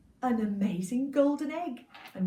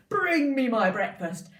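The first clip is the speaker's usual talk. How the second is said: giant voice; 7 dB louder than usual. Acted. Giant orders.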